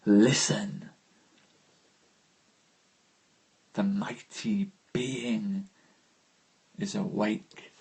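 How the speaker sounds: whispered, slow and hushed; hushed reading. Acted. Rereading the sonnet's climax to listeners, hushed whisper. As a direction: breathe it as a secret.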